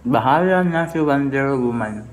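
chewing while talking; mouth partly full. Real, not acted. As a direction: lips near crab shell. Seen 0: Holds crab at mouth, picking meat; lips working while speaking.

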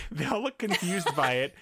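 laughing through the words. Real, not acted. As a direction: giggle while retelling. Repeats the line while laughing.

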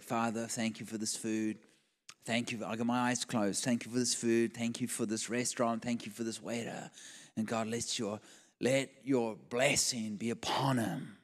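low, soft mealtime prayer; quick grace. Retold or imitated. Pastor saying grace over his steak, low and soft.

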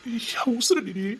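soft, intimate words of devotion; hushed adoration; tender endearment. Acted. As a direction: murmur it lovingly, just for the beloved. Lover's endearments to his wife.

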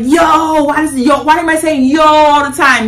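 high, shouted bewildered yo; mock confused shout; puzzled outburst. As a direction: blurt it out, baffled at yourself. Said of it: "You're like".

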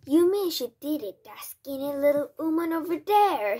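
high, loud, outraged question; incredulous shout. A narrator's reading. Father points at the accused woman, shouting in outrage. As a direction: shout it out in high-pitched disbelief. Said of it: "shouted Mister Jenkins".

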